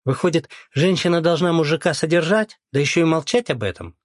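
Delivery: злорадный вопрос, выше и громче; уколоть злорадно, на подъёме. Acted. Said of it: "злорадно спросила Лена". (Лена злорадно поддевает бывшего мужа)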